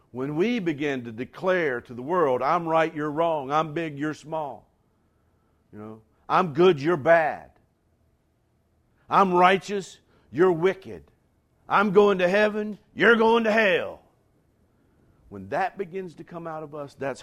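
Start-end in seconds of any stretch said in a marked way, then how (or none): 2.4-14.0 loud, smug declaring, rising higher; hammed-up holier-than-thou boasting; mock self-righteous shout. Preacher mocking church telling the world it's wrong, loud smug shout.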